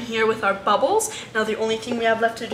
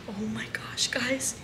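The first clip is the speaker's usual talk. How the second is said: hushed, breathless whisper of wonder; soft awed whisper; 11 dB quieter, slower than usual. Real, not acted. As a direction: whisper so you don't startle him. Hushed excitement at bath moment.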